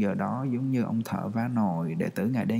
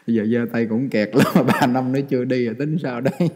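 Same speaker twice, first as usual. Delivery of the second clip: teasing laugh; 4 dB louder than usual. Real, not acted.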